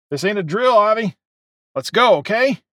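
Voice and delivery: loud, insistent barking; hoarse bark. A narrator's reading. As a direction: hustle them out like a guard. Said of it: "a hoarse voice barked".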